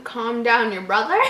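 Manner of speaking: rising puzzled question; incredulous reread. Real, not acted. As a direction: reread it in disbelief. Rereads in disbelief.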